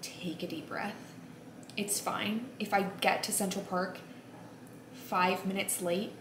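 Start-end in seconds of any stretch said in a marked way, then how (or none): 0.0-1.1 calming herself. Real, not acted. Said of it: "remind myself to just".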